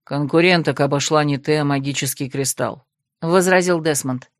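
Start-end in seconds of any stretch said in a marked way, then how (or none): 0.0-2.8 low, even voice of a reserved man; lightly voiced cool necromancer; calm male necromant. Desmond corrects Krasimirka, coolly low.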